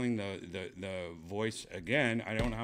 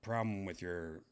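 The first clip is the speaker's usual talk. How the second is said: low, soft, deflated grumble; dejected and let down, voice sinking; kinda depressed; 3 semitones lower, 6 dB quieter than usual. Real, not acted. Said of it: "it's kinda making me depressed".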